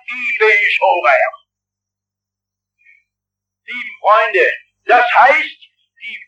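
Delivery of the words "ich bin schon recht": smug Swabian phrase. Retold or imitated. A sinner tells God he is fine, slow in light Swabian. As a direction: drag out "Ich bin schon recht." in a smug Swabian lilt. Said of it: "hin und sagt".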